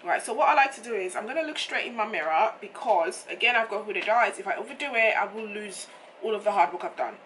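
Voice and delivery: hoarse, croaky throat; rough morning voice; frog voice. Real, not acted. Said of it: "what's going on with my voice this morning".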